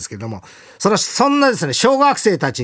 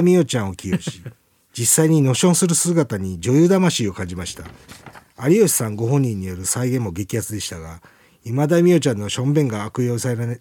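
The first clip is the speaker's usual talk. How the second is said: lower, orderly reading of a listener's letter; radio mail read; 4 semitones lower than usual. Acted. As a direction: read the example out as a radio host. Reads out listener's example.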